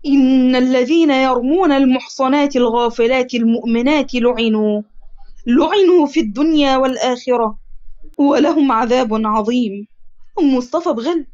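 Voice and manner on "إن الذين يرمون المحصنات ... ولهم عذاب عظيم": slow, measured verse recitation; Quran recitation. A narrator's reading. Adham quotes God's word to the accusers, slow solemn recitation. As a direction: recite the verse slowly, drawing out the endings.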